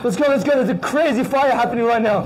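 urgent hurrying. Acted. Rushing people out of theater.

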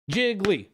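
JIGGLY said as two deliberate beats; two syllables. Shown as a demonstration. Streamer proving the count to chat, deliberate syllables. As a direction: carefully mark both syllables of Jiggly. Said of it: "Two syllables".

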